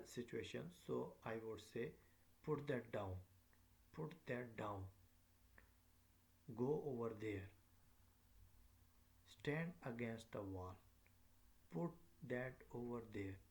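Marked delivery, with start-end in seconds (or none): 2.4-13.4 "down", "there", "wall" each dropping at the end; measured commands, voice falling on "down", "wall" and "there"; falling command intonation. Shown as a demonstration. Teacher giving example commands to learners, falling intonation. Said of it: "all of which would have falling intonation".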